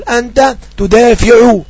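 very slow, clear dictation; slow example. Shown as a demonstration. Teacher reading an example sentence to students, slowly. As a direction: draw out each word for the class. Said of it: "أقول".

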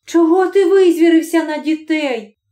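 put-on wife scolding husband for snapping at the kids; wife's reproach. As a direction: scold your husband for yelling. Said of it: "спитала вона".

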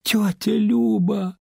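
high, slow drawn-out gasp of her name; girl gasping at the sight of her father. A narrator's reading. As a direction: gasp it in shock. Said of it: "тихо ахнула Лариса".

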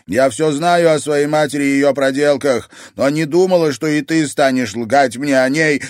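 hurt granddaughter yelling; shouting. Acted. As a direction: shout the betrayal at her. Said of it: "крикнула Луиза".

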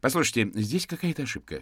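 a hint of an agitated mother; interrupting mother. A narrator's reading. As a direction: cut in to defend your son. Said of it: "вмешалась женщина".

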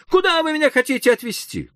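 high, frightened question; alarmed plea. A narrator's reading. Hoffmann asking the doctor in alarm. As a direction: demand it in panic.

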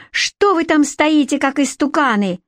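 high-pitched indignant squeal. A narrator's reading. Captive queen scolds idle onlookers, high squeal. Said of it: "завизжала Красная Шапочка".

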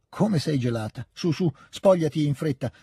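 a touch of bossy care; brusque old lady. Acted. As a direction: fuss and hurry them out of their coats. Hurrying the guests. (premura un po' autoritaria)

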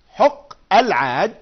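حق العاج joined, alif silent, slow and loud; linked reading. Shown as a demonstration. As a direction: glide from the q of حق straight into the l of العاج. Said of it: "لكننا لم ننطق الألف". (وصل حق العاج دون نطق الألف)

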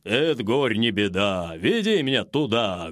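low, booming bear voice; big bear rumbling his promise. A narrator's reading. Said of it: "гудит медведь".

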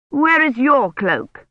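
put-on a suspicious old noblewoman questioning; stern old lady. A narrator's reading. Imeyne's voice in story.

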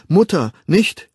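high, loud, slow plea; flehender Ruf. A narrator's reading. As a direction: cry out to stop her. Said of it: "rief er". (hoch und laut flehen)

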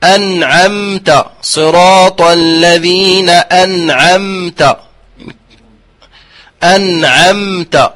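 slow أنعمت with the mim held midway; slow tajwid demo. Shown as a demonstration. Reciting teacher shows the correct mim in أنعمت. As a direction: draw out أنعمت carefully. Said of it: "الميم كذلك".

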